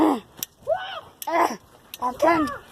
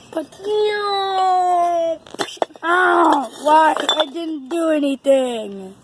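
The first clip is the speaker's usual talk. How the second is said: crying out in pretend dismay; mock despair; 3 semitones higher, slower than usual. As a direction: protest the capture, hammed up. Pretend character caught, protesting.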